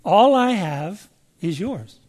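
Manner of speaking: "All I have is yours" said slowly, gently; slow and tender. Shown as a demonstration. Preacher slowly savoring the father's promise. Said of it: "Key on that word, those words".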